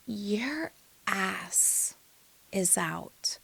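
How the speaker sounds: soft, halting, with pauses; discreet hushed aside. Retold or imitated. Dad tells her an awkward truth, hushed. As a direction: break it quietly, word by word.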